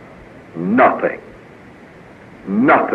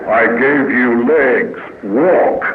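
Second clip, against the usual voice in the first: God's firm answer; 3 semitones lower, much slower than usual. Acted.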